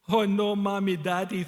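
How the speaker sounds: mock-panicked inner wail; alarmed. A narrator's reading. Wally to himself when stopped at customs, alarmed.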